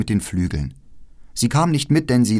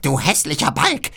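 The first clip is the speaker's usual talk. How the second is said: hohe, langsame Hexenstimme; genüsslich wie eine hungrige Hexe; altes Räuberweib; 7 semitones higher than usual. Acted. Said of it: "sagte die Mutter". (Räuberweib begutachtet Gerda: langsame, hohe Hexenstimme)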